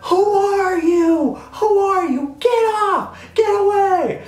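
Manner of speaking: high, loud, shrieked demands; hammed-up paparazzi screech; mock yelling photographers. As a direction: shoo an intruder off the carpet.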